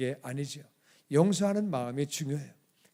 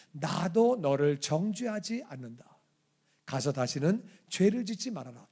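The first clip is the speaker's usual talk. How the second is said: gentle forgiveness. Retold or imitated. Jesus forgiving the woman.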